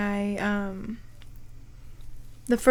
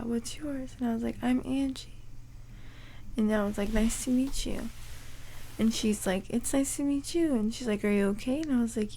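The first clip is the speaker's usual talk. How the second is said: whispering; 7 dB quieter than usual. Retold or imitated. Retold whispered talk after extubation.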